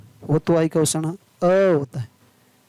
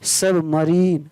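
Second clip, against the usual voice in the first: slow demo; much slower than usual. Shown as a demonstration. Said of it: "S U B M A R I N E".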